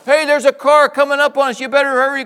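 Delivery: high loud urgent call; urgent kid warning; excited kids. Retold or imitated. Kids warning from back seat.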